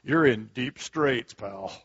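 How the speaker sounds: voice of the enemy. Acted. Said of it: "that wonderful voice of the enemy".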